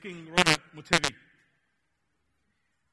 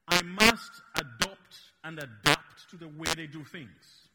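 speaking slowly; 3 semitones lower, slower than usual. Real, not acted. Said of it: "why I'm speaking slowly".

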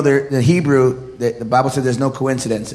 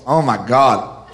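mock hater's disdain; 3 semitones lower, slower than usual. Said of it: "'cause they're haters".

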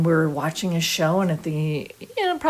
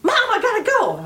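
hurried; 14 semitones higher than usual. Retold or imitated. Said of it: "And I'm like".

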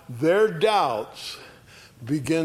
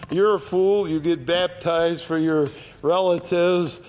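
facetious; 3 semitones higher than usual. Retold or imitated. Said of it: "he's being facetious".

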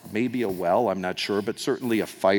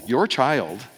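pointed your; 2 semitones higher, 4 dB louder than usual. Retold or imitated. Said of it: "you don't even mention the name".

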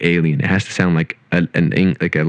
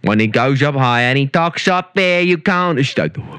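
posh butler voice; 5 semitones higher than usual. Pretend. Alfred impression continues.

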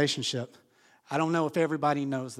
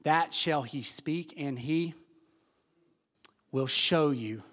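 slow, measured Bible reading; scripture reading; slower than usual. Acted. Pastor reading the Bible aloud to the congregation, slow and measured. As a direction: read the verses out deliberately.

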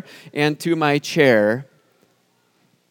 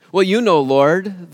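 sheepish confession; 4 semitones higher, slower than usual. Acted. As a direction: own up to the Lord, a bit embarrassed. Paul confesses to the Lord.

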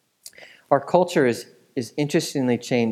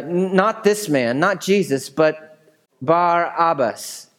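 higher, slow, insistent cry; 5 semitones higher, slower than usual. Acted. Leaders crying out to Pilate, slow raised voice. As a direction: plead for the prisoner's release. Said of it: "The leaders cried out".

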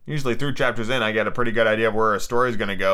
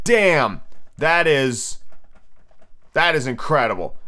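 impressed; 2 semitones higher, slower than usual. Acted. Viewer sees world-class builds, impressed. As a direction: let it out impressed, pitched up.

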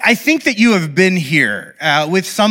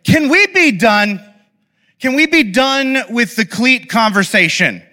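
fed up; 5 semitones higher than usual. Retold or imitated. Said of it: "I'd had enough, and I was just like".

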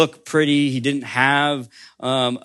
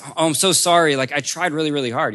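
anxious apology; 4 semitones higher, faster than usual. Acted. Max apologizing for his dots.

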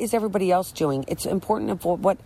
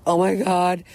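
rising exasperated yell, quickening at first; mock-fed-up mother losing patience with the kids; frazzled mom yelling at kids. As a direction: bark orders at squabbling kids for the family photo. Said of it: "I'd be like".

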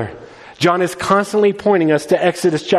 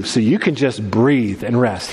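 gentle reassurance; 6 semitones lower than usual. Real, not acted. Reassuring congregation.

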